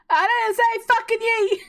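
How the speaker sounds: high, loud mock scolding; mock outrage. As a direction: blurt it out in playful indignation. Mock outburst at a wrong response.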